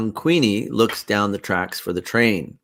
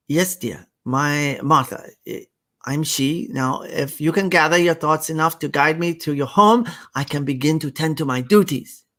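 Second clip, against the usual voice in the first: a lightly put-on Asian accent, higher; 6 semitones higher than usual. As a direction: Martha in a mild Asian accent, gentle and formal. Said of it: "the horrible Asian accent".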